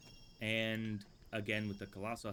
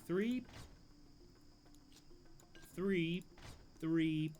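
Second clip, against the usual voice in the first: excited counting; 8 semitones higher, much slower than usual. Real, not acted.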